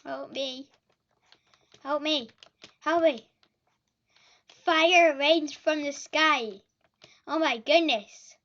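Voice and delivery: loud alarmed exclamations; panicked shouting. Real, not acted. Fire raining in game.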